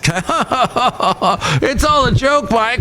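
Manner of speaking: high, very slow whining; mock whiny excuse. Young coworker pleading after being thrown out, high slow whine. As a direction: drag it out like a kid who got caught. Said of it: "And he's".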